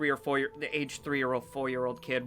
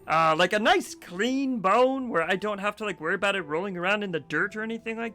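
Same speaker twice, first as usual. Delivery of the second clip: high talking dog, drawling the key words; hesitant start, then chatty dog with big pitch swoops; Birch; 7 semitones higher, 4 dB louder than usual. Acted. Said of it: "Birch speaks up first".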